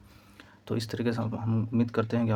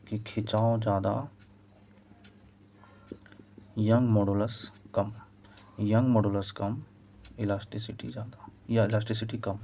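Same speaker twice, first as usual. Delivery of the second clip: slow dictation; slower than usual. Shown as a demonstration. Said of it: "teacher spells out key relation".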